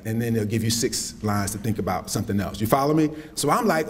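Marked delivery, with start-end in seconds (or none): none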